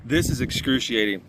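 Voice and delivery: strained, pained voice. Real, not acted. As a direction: speak through real pain. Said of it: "is throbbing in pain".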